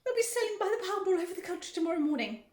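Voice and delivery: high, loud wailing; screaming. A narrator's reading. Mother lamenting her son's fate, screaming. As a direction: wail it loudly for your poor child. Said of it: "screamed Missus Gloop".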